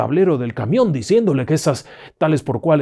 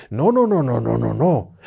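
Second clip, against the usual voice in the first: urgent protest. Acted. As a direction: stop him before he leaves. Villagers urgently stop him. (alarmados, muy agudo)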